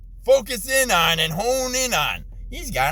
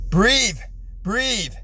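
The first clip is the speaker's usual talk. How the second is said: calming self; much slower than usual. Real, not acted. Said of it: "Rolling down the window to get some air".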